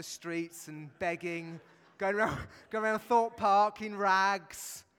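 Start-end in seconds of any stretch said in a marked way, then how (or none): 2.0-4.8 laughing. Real, not acted.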